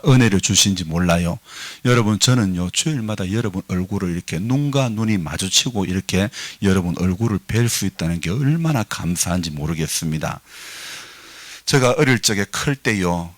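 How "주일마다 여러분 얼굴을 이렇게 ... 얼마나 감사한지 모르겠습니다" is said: usual speaking voice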